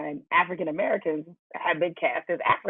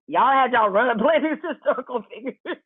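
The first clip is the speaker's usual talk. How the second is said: high, amused voice breaking into laughter; laughter bubbling through the words; laughing while talking; 9 semitones higher than usual. Real, not acted. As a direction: talk through the laughs, pitch riding up. Host laughs while making his point.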